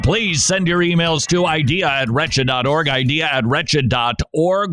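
hoarse, croaky throat. Real, not acted. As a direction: talk through a sore croak. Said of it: "Croaky voice and all".

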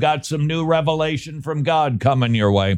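mock revelation handed down to a scribe; God. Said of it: "but God said".

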